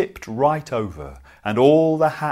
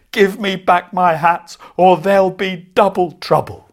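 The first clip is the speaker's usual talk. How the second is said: much higher and louder furious yell; furious shout; 6 semitones higher, 9 dB louder than usual. Acted. Hat seller yelling at the monkeys, furious and loud. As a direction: stamp and roar the threat. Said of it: "The man was furious".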